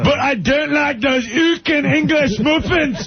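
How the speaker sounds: high-pitched comic Irish grumbling; hammed-up Irish indignation; mock Irish rant. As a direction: rail in a put-on Irish accent. Mock Irish rant at English muffins.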